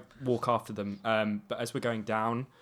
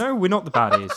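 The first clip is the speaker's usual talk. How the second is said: loud denial; 9 semitones higher, 6 dB louder than usual. Acted. Merlin insists in character.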